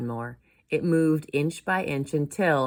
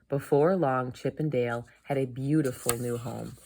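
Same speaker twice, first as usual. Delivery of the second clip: put-on lively storybook reading for children; story narration. A narrator's reading. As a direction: tell the tale clearly to kids.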